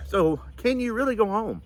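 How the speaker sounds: high, choked-up question; pushing words out through tears; crying while asking; tearful. Real, not acted. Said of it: "I told y'all I probably squalled during this".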